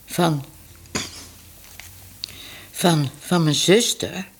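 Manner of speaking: stotterend van schrik, mild; geschrokken gestotter. A narrator's reading. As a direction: hakkel geschrokken. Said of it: "Minou schrok". (geschrokken, haperend)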